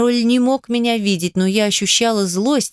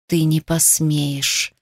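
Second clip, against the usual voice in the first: slow, low, rasped threat; hoarse croak; 3 semitones lower, slower than usual. A narrator's reading. Trapped king rasping at Lem, slow hoarse threat. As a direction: croak it out slowly through a strained throat. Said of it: "прохрипел король".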